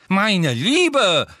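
loud, high-pitched indignation; indignant. A narrator's reading. Professor rebuking a student during an exam, indignant. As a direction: scold as an affronted examiner. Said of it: "in empörtem Ton".

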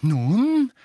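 high, loud, heavy-breathed word; breathing heavily. A narrator's reading. Mrs Weasley looking round vainly for help, breathing heavily. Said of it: "sagte Misses Weasley schwer atmend".

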